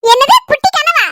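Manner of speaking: high, slow incredulous question; surprised. Acted. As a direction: act amazed at the news. Surprised at tiny dream.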